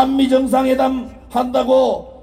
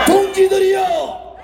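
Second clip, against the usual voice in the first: rallying call; 4 semitones higher than usual. Real, not acted. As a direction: call the comrades to arms. Calls out louder to the crowd.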